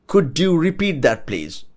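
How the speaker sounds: "Could you repeat that" spaced out word by word; careful model. Shown as a demonstration. Teacher showing what to say when not understanding, careful and deliberate. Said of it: "you could say".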